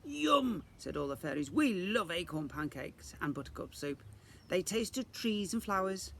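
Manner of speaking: high, sweet chorus of fairies; lightly voiced happy fairies; delighted fairies. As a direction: gush over the food. Fairies praise lunch.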